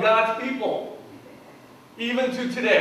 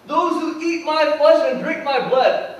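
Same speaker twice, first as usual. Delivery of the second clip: quoting Jesus; 6 semitones higher, 6 dB louder than usual. Retold or imitated. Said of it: "he goes on and he says".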